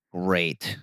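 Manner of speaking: dry, understated sarcasm; sarcastic. Real, not acted. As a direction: say the praise deadpan, not meaning it. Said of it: "That's sarcasm".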